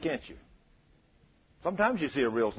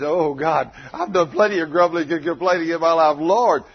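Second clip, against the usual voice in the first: imitated confession, pushed louder; mock contrite prayer; 6 dB louder than usual. Preacher voices the little girl confessing to God, loud mock contrition. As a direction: act out a forceful cry of repentance to God.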